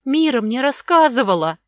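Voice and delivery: put-on high, loud childish wail; fearful little girl's voice; frightened whimper. A narrator's reading. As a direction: whine it out like a scared girl. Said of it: "захныкала испуганно Огнева".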